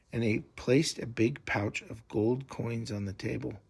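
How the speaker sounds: plain reading voice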